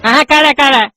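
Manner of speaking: ordinary talk, nothing marked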